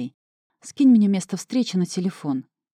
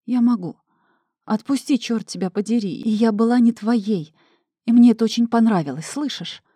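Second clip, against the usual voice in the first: loud and higher, fierce; defiant shout; 5 semitones higher, 5 dB louder than usual. Acted. Vera pulls away from husband, loud defiance. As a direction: fight free of his grip.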